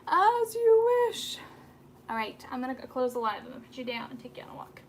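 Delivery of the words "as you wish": high, loud, very slow movie line; son acting a line. Mother imitating her son acting out a movie line, slow and high. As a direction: draw it out like a romantic hero. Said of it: "He'll go".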